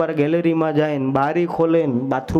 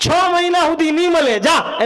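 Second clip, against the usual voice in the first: curt dismissal; 11 semitones higher, 4 dB louder than usual. Acted. Wife dismisses neighbour at window.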